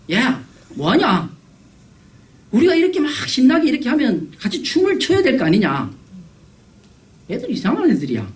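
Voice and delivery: high-pitched complaint at playmates; mock-indignant child, pitch climbing; acted childish reproach. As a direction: scold the kids who won't join in. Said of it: "비난합니다".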